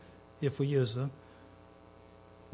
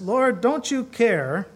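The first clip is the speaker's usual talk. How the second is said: slow, pleading, louder mock complaint; upset Martha; 5 semitones higher, 5 dB louder, much slower than usual. Preacher voicing an upset Martha to the congregation, slow and loud. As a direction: drag out the plea as a fretting woman. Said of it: "Martha gets upset and she says".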